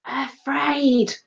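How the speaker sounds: feed the actor the missing word; light stage prompt; teacher prompting. A narrator's reading. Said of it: "Mister Lace prompted".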